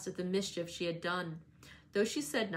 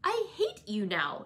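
mild furious outburst; angry girl's accusation, understated; panted fury; 10 semitones higher, 3 dB louder than usual. A narrator's reading. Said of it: "she panted".

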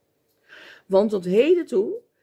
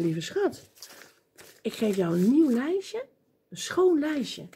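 tender; 2 semitones higher than usual. Acted. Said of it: "hij zei".

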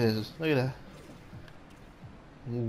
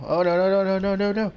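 rising, louder string of no; panicked no; 5 semitones higher, 4 dB louder than usual. Real, not acted. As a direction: panic as the ball rolls. Watching a shot go in.

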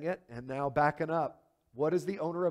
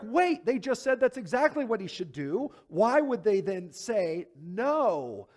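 higher, confused question, slow at the end; puzzled listener; 4 semitones higher, 4 dB louder, slower than usual. Retold or imitated. Preacher voicing a confused congregation member, higher. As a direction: sound baffled by the switch. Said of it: "You're like".

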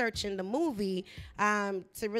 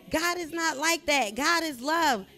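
raised, louder preachy declaration; angry Christian; 5 semitones higher, 4 dB louder than usual. Retold or imitated. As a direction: lecture the crowd firmly on the way out. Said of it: "I sounded like the angry Christian".

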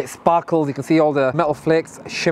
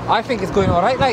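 put-on Geordie lilt; Newcastle accent. Defending his terrible impression in a Newcastle accent. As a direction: lightly imitate a Newcastle accent. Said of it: "How's me Newcastle accent like?".

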